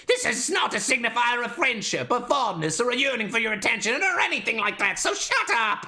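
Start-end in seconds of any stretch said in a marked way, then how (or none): 5.0-5.9 snapped shout. Acted. Snapping at him.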